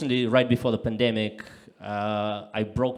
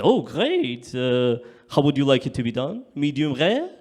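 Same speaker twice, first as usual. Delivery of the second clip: keen waiter; 2 semitones higher, 5 dB louder than usual. Retold or imitated. Waiter asking how it's done.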